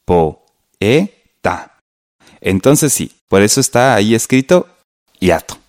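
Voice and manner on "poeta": "Poeta" broken into po, e, ta with clear pauses; "Poeta" in three separate beats; split into syllables. Shown as a demonstration. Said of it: "Separemos la palabra".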